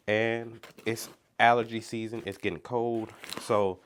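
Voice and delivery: stuffy, congested voice; blocked nose. Real, not acted. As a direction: talk through a blocked nose. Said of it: "talking through my nose because I am partially congested".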